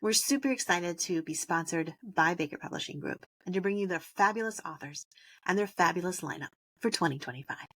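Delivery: scripted podcast ad read; sponsor read. Acted. Host thanking the show's publishing sponsor, scripted ad read. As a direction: read out the sponsor credit, measured.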